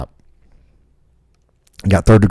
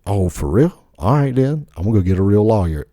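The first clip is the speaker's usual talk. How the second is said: mock sassy old lady; 3 semitones higher than usual. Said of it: "she was like".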